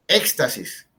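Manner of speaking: éxtasis with a strong first syllable; ÉX-tasis, hitting the start; stress on antepenultimate syllable. Shown as a demonstration. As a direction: lean on the opening of éxtasis. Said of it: "que es en la antepenúltima sílaba".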